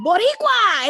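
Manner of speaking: loud, high shouted Boricua; calling out Boricua. Retold or imitated. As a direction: call out proudly to a passing car. Calling out to a flag in a car.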